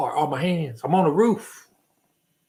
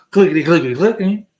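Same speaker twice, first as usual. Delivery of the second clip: loud clicking; 2 semitones higher, 8 dB louder, faster than usual. Retold or imitated. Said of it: "I said clickety click".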